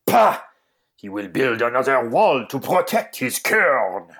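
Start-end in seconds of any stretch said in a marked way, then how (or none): 0.0-0.4 loud scoffing Pah burst; scornful Pah. Acted. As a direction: spit out a disgusted Pah. Scoffing outburst.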